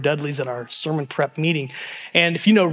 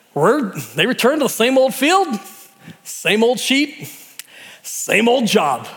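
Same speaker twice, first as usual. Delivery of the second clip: preaching emphasis; 6 semitones higher, 3 dB louder than usual. Real, not acted.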